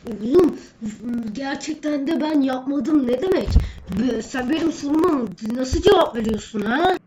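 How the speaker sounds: loud, high angry scolding; scolding teacher. Acted. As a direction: yell at the cheeky student.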